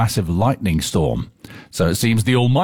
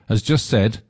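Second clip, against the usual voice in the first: put-on Cornish accent; slower than usual. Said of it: "I don't know why I did that in that accent".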